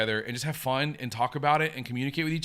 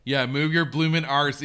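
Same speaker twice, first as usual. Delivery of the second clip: put-on slow, louder Cockney accent, the full line; 5 dB louder, slower than usual. Answering chat with Eliza's racetrack line, slow Cockney accent. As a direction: lean into a slow stage Cockney accent on bloomin' arse. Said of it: "she said".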